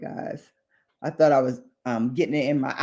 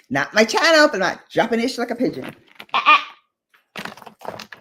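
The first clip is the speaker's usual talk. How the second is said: laughing; 6 semitones higher than usual. Real, not acted.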